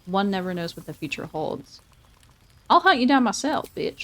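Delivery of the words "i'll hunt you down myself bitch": higher-pitched sassy mock threat; playful mock threat. Player teasing a game friend about hunting her down, playful mock threat.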